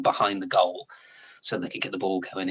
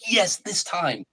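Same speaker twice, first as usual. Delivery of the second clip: mock-hopeful, pitched way up; hopeful cheer; 10 semitones higher, much slower than usual. Football fan imitating false hope, high mock cheer. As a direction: voice the fan's brief hope, lifted high.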